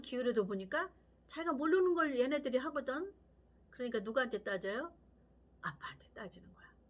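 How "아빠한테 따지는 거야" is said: hushed whisper, much softer; whispered aside to the congregation. Real, not acted. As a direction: drop to a secretive whisper. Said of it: "엄마 아빠한테 따지는 거야".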